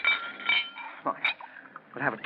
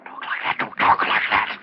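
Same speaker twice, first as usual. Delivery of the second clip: frightened whisper. Acted. Terrified husband begs her to stop.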